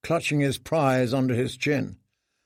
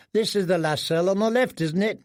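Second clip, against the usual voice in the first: lightly voiced boy; 6 semitones higher than usual. Boy jailer asking.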